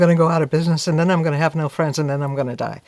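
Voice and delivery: mock panic. Acting out catastrophic worry.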